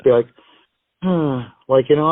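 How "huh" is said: small disappointed huff; imitating a let-down gambler's sigh; imitated silent groan. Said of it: "he'd silently groan".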